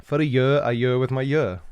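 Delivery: each "year" sounded identically, a Welsh "yurr"; Welsh pronunciation. Shown as a demonstration. Welshman showing one word with three uses, Welsh pronunciation. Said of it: "It's one word, three uses".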